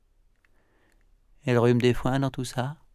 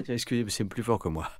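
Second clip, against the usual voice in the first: excuse gênée. Acted. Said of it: "s'excusa Kali".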